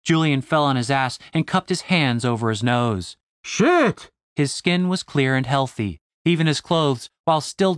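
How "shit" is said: pained yelp. Acted. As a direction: yelp as if just headbutted. Hit in the face, yelps.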